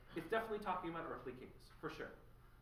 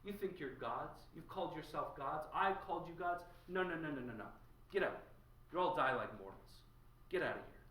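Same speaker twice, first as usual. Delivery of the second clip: louder, scornful commands to get out; angry eviction; 3 dB louder than usual. Acted. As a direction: shove everyone out with contempt. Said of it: "breaks down the door, and says".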